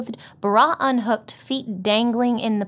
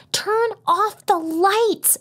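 slow, sharp hissed order, higher; urgent hiss; 13 semitones higher, 4 dB louder, much slower than usual. Acted. Telling Becca to kill the headlights, urgent hiss. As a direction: hiss it so nobody wakes up. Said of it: "I hiss".

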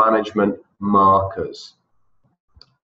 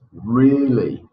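Really said with more energy and emphasis; with gusto; 2 semitones higher than usual. Shown as a demonstration. Teacher asking class to say Really with gusto. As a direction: give Really some real enthusiasm. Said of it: "Con ganas otra vez".

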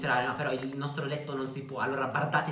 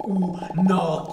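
louder, higher exclamation; amazed outburst; 4 semitones higher, 7 dB louder than usual. Real, not acted. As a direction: burst out in amazement. Amazed at a trick in game. (esclamazione stupita, a voce alta)

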